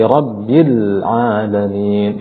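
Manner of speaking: slow "Rabbil alamin", leaning on the l of "Rabbil"; pressed lam. Shown as a demonstration. Teacher warning against bouncing, lam pressed firm. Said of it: "ditekan pada lamnya".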